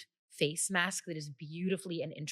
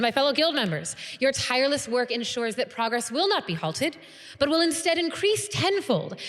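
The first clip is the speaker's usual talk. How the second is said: higher-pitched, measured formal oratory; stirring guild leader; 8 semitones higher, 6 dB louder than usual. Acted. Guild leader to members and pledges, stirring speech. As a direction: inspire them, phrase by phrase, with pauses.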